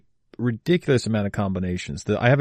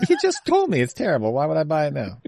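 incredulous; 6 semitones higher, faster than usual. Real, not acted. Mock-indignant at friend's pitch.

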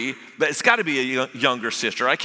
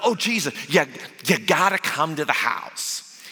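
excited Martha. Acted. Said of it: "Martha is excited".

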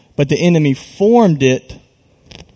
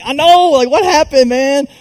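much higher, louder retold reaction; exasperated disbelief; 11 semitones higher, 4 dB louder than usual. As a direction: replay the stunned reply to a teammate. Retold reply to upset teammate.

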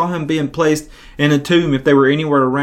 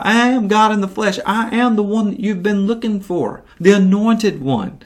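Jesus voice; 6 semitones higher than usual. Retold or imitated. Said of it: "And so Jesus says".

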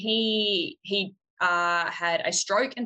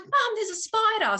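imitating daughter; 14 semitones higher than usual. Voicing her daughter calling.

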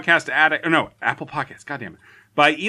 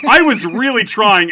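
laughing; 7 semitones higher, 6 dB louder than usual. Real, not acted. Laughing defense.

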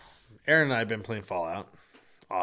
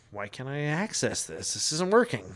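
retold frustration; 3 semitones higher than usual. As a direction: replay your rising irritation at a glitch. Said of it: "I'm getting a little pissed off".

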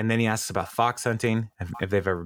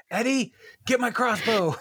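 high, hammed-up rich villain calling his servant; mock villain call-out; 13 semitones higher than usual. Feinstein calling after the fleeing crew, high hammed-up villain call. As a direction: shout it up high like a cartoon villain. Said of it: "his call out here as they're leaving".

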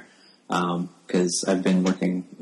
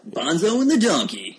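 high, laughing delivery; 10 semitones higher, 4 dB louder than usual. Real, not acted. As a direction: laugh through the joke name. Joking about radio show names.

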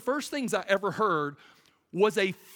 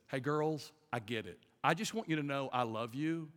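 fatherly reassurance; 2 semitones lower than usual. Retold or imitated. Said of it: "I look at 'em and say this".

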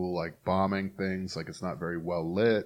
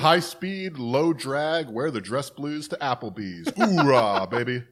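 hammed-up gung-ho soldier, louder; 4 semitones higher, 5 dB louder, slower than usual. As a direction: shout it like a moto grunt. Mocking gung-ho troops.

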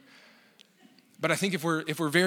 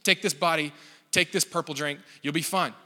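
mock insistent churchman; pushy. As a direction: press it on them, item after item. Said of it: "pushing it down our throat".

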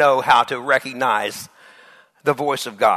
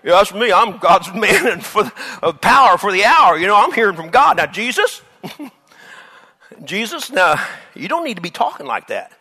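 proud Peter; 3 dB louder than usual. Acted. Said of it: "Peter ... rebuke him".

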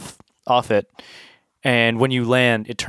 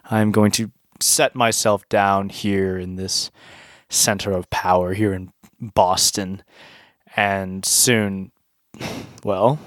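mad scientist; 3 semitones lower than usual. Acted. Volcano god villain monologue.

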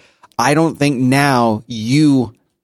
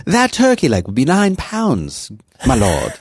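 shakespearean english; 4 semitones higher, slower than usual. Retold or imitated. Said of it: "they say something like".

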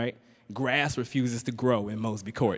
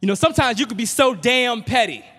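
high, loud full yell; louder, higher yell across the house; 10 semitones higher, 7 dB louder than usual. Retold or imitated. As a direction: really belt it down the hall. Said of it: "So I yell out".

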